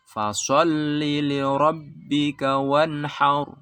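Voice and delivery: fasalli li rabbika wanhar with li kept short, chanted slowly; correct short li. Shown as a demonstration. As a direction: keep li short and clip it.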